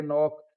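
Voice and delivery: नॉक with no K at the start; silent K. Shown as a demonstration. Teacher demonstrating the rule to learners, silent first K in नॉक. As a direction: begin नॉक straight on the N. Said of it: "के silent हो गया है".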